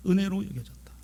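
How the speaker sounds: soft, brief, half-whispered echo; hushed repeat. Real, not acted. Preacher letting the grace sink in, hushed echo. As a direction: drop to a hush and say it simply.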